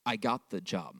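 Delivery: hushed mouthing from a distance; mouthed. Retold or imitated. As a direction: barely voice it, as if mouthing across a lot. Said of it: "words the mouth from across".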